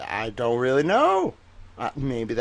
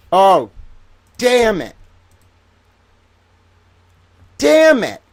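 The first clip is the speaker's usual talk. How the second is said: much higher, louder exasperated cry; a hammed-up groan of defeat; mock frustration; 8 semitones higher, 7 dB louder, slower than usual. Frustrated reaction to the news.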